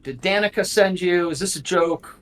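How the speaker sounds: a touch of nervous stammering; mildly apprehensive. Acted. Cornered young man denies knowing him, mildly apprehensive. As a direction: voice a young man lightly rattled and defensive. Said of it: "now he looks apprehensive".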